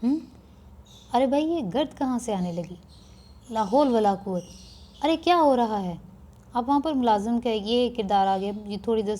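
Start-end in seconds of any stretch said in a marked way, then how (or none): 0.0-5.9 surprised husband. Acted. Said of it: "میاں نے حیران ہو کے کہا".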